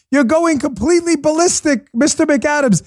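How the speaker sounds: high-pitched imitation of a yelling TV host; hammed-up shouting at a debate guest; mock yelling. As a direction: yell it in mock outrage. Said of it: "He's yelling at this guy".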